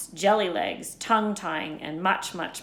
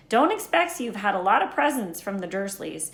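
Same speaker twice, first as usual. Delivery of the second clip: lightly voiced Hagrid; 2 semitones higher, 6 dB louder than usual. Hagrid explaining Quidditch to Harry, lightly voiced. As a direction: explain wizard sport with eager bluster.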